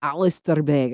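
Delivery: put-on lighter, toned-down Scottish accent. Podcast host repeating the pastor's name for fun, in a milder Scottish accent. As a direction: say the name with a modest Scottish lilt. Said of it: "he doesn't say it like that".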